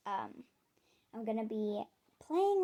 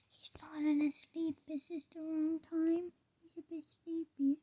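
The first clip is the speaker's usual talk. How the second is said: raised pitch, hushed pet talk; tender cooing; 6 semitones higher than usual. Real, not acted. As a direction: coo over a sleepy little bunny. Seeing the sleepy pet rabbit.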